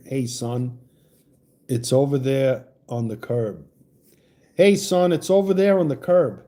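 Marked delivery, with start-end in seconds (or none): 0.1-3.7 Southern accent. Shown as a demonstration. Host asks the Oklahoma caller to say a line in her accent. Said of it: "Your accent, will you say".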